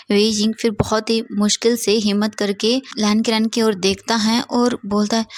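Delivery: usual speaking voice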